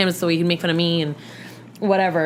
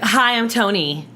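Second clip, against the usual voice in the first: lightly imitated Tony's drawn-out hello; slow, mildly put-on introduction; lisping talker; 3 semitones higher, slower than usual. Retelling how a man introduced himself, light mocking imitation. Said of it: "he, like, super talked like this".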